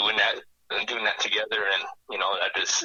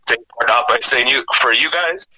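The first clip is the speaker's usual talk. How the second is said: real choked-up grief, halting; 3 semitones higher, 7 dB louder than usual. Real, not acted. Nephew thanking his late uncle's friends on air, choked up. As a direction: speak through a lump in the throat. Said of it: "I'm sorry I've been choked up".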